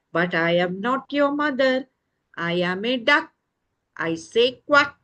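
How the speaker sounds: emphatic storybook duck with quacks; friendly duck. Acted. Duck tells the chick to look further, emphatic and friendly. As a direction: play a helpful duck sending a chick on.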